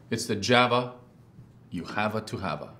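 slogan in a put-on Italian accent. Ad man trying out a coffee slogan, Italian accent. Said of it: "Like an Italian accent?".

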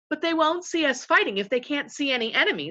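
mildly plaintive objection; miserable. A narrator's reading. Eustace doubting anyone will see them fighting, miserably. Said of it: "said Eustace miserably".

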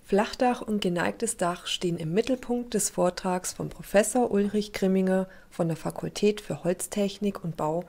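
scripted TV report narration; measured, informative broadcast read; news voice-over. Acted.

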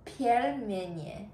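"Pelmeni" sounded out very slowly by a learner; terrible pronunciation. Real, not acted. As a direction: attempt "Pelmeni" as an unfamiliar word, drawn out with a questioning rise. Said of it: "the way that I pronounced it was so terrible".

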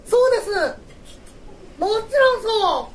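high, loud hammy guide; mansion guide voice. Acted. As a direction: play a theatrical mansion host. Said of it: "館の案内人ですよ".

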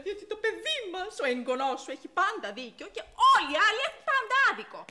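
building to a loud, high rant; bitterly indignant, rising to shouting; angry outburst. Acted. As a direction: let exasperation boil over in an argument. Argues with mother over spoiled son.

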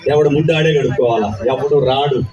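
film dialogue delivery. Pretend. Actor asked by a fan for a film dialogue, mild rousing declamation. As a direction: declaim it like a hero's political monologue. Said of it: "nineties biopic one dialogue".

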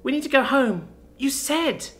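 put-on high, pleading little-girl voice; tearful child. A narrator's reading. Child urging her fallen sister home, tears coming. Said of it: "tears coming".

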